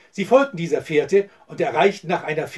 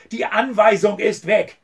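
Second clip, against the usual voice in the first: higher, drawn-out angry exclamation; exasperated, raised-pitch outburst; furious cry; 5 semitones higher, 4 dB louder than usual. A narrator's reading. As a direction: spell it out slowly in anger. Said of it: "rief der Ölprinz wütend".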